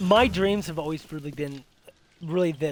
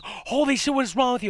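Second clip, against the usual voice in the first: startled outburst; 6 semitones higher than usual. Retold or imitated. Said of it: "She goes".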